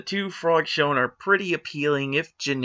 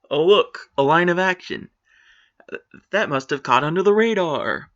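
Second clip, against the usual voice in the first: mock surprise; 4 semitones higher, 3 dB louder than usual. Real, not acted. Mocking a rare good drawing.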